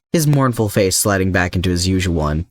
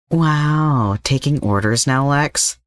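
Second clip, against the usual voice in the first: mocking; 7 semitones higher, slower than usual. Slade mocks Lex for obeying.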